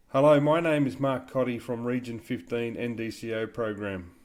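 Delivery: clear, deliberate dictation voice. Shown as a demonstration. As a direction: speak each word clearly for the software. Dictating to speech-to-text software.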